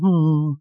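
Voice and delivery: acted glum "hmm"; moping hum. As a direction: hum like someone moping around. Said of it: "he's like moping around".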